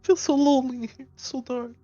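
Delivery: ghostly voice. Acted. Voice changer ghost cousin.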